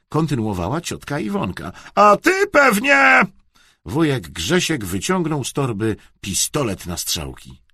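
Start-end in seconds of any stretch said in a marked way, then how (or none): 1.9-3.2 high, loud, drawn-out accusation; loud scolding. A narrator's reading. Aunt suspecting uncle's present, scolding loudly. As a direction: accuse at full voice.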